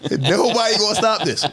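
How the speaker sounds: put-on high, laughing plea of a choked kid; kid's panicked plea. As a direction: beg for help, laughing through it. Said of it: "I'm like".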